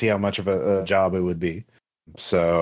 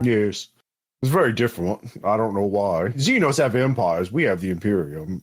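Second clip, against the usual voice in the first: Hunby. Acted. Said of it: "having a moment with this accent".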